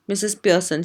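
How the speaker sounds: ordinary delivery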